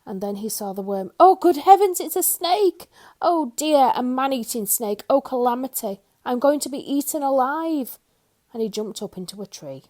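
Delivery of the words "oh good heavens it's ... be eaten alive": high, loud terrified babble; panicked shriek. A narrator's reading. Mister Jelly mistaking a worm for a snake, shrieking high. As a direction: wail as if a snake will eat you.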